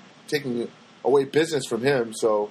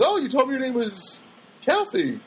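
lightly voiced chirpy woman, higher pitched; imitated lady; 8 semitones higher than usual. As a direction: lift the voice to mimic the lady. Acts out the chatty lady.

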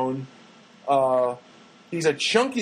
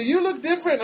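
imitated coworker; 11 semitones higher than usual. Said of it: "she said to me".

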